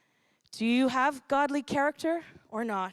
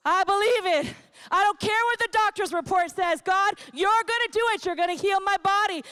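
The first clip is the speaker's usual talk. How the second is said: bold declaration of faith; 4 semitones higher than usual. Pretend. Voicing a faith-filled prayer.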